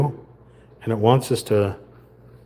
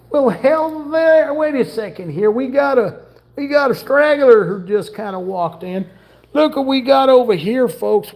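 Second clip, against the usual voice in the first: hammed-up cowboy voice; 8 semitones higher than usual. Greeting the cat Sammy for viewers in a folksy cowboy voice. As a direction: greet the pet like a showman cowboy. Talks to pet Sammy in character.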